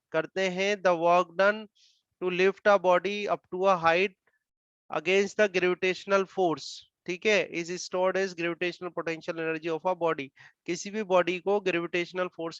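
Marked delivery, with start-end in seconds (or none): 0.8-10.3 each word drawn out slowly for note-taking; slow dictation. Acted. Teacher dictating the potential energy definition, slow dictation. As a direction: read the definition slowly enough to copy.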